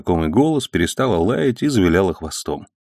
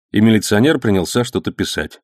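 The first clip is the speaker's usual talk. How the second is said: plain reading voice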